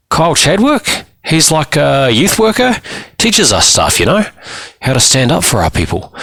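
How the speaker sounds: put-on high-pitched boy with questioning lifts; defensive teenage client. Boy tells counsellor about his youth worker, defensive. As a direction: explain it as if it's obvious, voice high.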